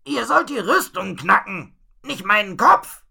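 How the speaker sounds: high, forceful scolding yell; angry shout downwards. A narrator's reading. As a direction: shout your grievance down to those below. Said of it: "schrie er nach unten".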